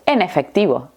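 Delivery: EN EFECTIVO run together as "enefectivo"; mots liés. Shown as a demonstration. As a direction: link the N of "En" onto "efectivo". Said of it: "lo vamos a unir todo junto".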